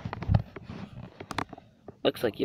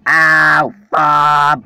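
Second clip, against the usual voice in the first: tripping and falling; 6 dB louder than usual. Real, not acted. Falls over mid-sentence.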